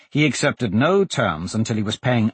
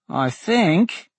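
put-on high, raised little boy's voice; small voice; 9 semitones higher than usual. A narrator's reading. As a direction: pipe up like a small boy reporting. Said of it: "a small voice said".

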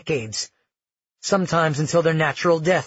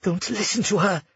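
higher-pitched, urgent aside; hissed warning; 5 semitones higher than usual. Acted. Nerissa warns Amara against her grandmother, hissed. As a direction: warn her under your breath. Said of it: "Nerissa hissed".

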